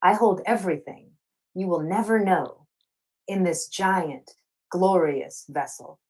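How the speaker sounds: measured spoken-word poem read to an audience; poem recitation. Acted. Poet opening her reading, reciting her signature poem. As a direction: let each line land slowly, like a performed poem.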